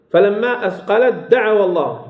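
أثقلت دعوا recited with the taa turned into a doubled d; full merging demonstration. Shown as a demonstration. Teacher recites the example for students, taa of أثقلت fully merged. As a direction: run أثقلت دعوا together as athqalad-da'awa. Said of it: "تدغم التاء كاملة في الدال".

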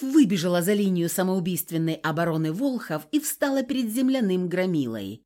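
usual speaking voice

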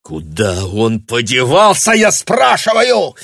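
slow, loud, rising to a high shout; man repeating his demand, choking; breathless fury. A narrator's reading. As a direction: demand it gasping for air. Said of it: "будто ему не хватало воздуха".

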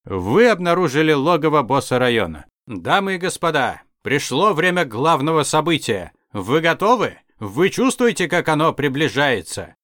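hyped, warped DJ announcer; a slowed, distorted boss announcer. Acted. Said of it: "Искажённый голос звучал даже громче".

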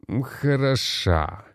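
slow, drawn-out reluctant "Хороша" rising high at the end; "Хороша" stretched slowly, pitch rising, said against his will; grudging praise. Acted. Jose admits the singer was good, grudgingly drawn out. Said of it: "пусть и неохотно".

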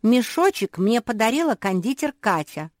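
high, loud indignant protest; shouting. A narrator's reading. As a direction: raise the voice to claim what is yours. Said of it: "крикнула Жози". (громко, возмущённо)

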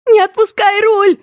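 высокий отчаянный медленный крик; закричи изо всех сил, растягивая слова; громкий крик. A narrator's reading. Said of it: "громко закричала она". (пронзительный крик от ужаса)

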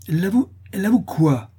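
high, loud alarmed question; half-frightened cry. A narrator's reading. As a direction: ask in startled alarm. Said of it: "s'écria madame Dubreuil à demi effrayée". (question criée, à demi effrayée)

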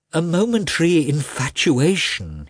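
pleading. A narrator's reading. Husband pleads on.

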